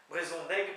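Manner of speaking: "brezonnec" said as spoken, nasal o and final K; Breton pronunciation. Shown as a demonstration. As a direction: say "brezonnec" the Breton way, not as spelled. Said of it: "mais ça se dit brezonnec". ("brezonnec" prononcé à la bretonne)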